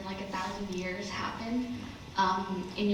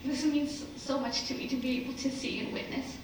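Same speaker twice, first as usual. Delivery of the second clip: teary; 4 semitones higher than usual. Real, not acted. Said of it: "I'm getting teary".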